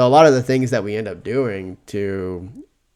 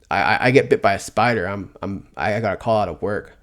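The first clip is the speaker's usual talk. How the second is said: ordinary talk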